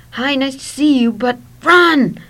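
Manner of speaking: high, very loud frantic cry; full-voiced, panicked get-away shout; urgent shout. A narrator's reading. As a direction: yell it on the run. Friend grabs narrator, urges escape.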